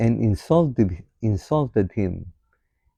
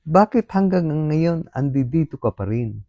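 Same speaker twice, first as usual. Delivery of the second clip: voicing the devil; 7 semitones higher, 3 dB louder than usual. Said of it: "Sabi ng demonyo".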